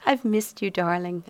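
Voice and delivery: lightly cooed endearment; cooing. Acted. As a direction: coo it, all honey and charm. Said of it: "I cooed".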